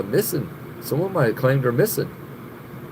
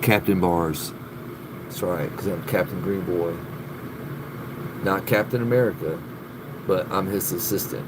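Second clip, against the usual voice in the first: much lower, softer mock superhero; deep hero voice; 10 semitones lower, 7 dB quieter than usual. Streamer playing a superhero sidekick for viewers, deep mock voice. Playing Captain Green Boy.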